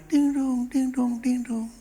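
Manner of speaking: sing-song doorbell chime, pitched high; high two-note ding-dong, repeated evenly; imitated doorbell. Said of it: "ada bel di rumah".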